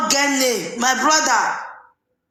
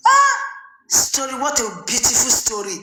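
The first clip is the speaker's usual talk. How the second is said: mock crying. Host fake-sobs over his friend's story, mock crying. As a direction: ham up tears of joy at a beautiful story.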